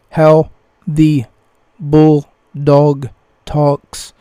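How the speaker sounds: gasping, one word at a time; panting out each word loudly; out of breath. Retold or imitated. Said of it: "Bulldog talks like he's out of breath".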